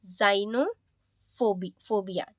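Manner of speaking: slow "जाइनोफोबिया" opening on a Z sound. Shown as a demonstration. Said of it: "ज की तरह pronounce". ("जाइनोफोबिया" धीरे, ज़ से शुरू)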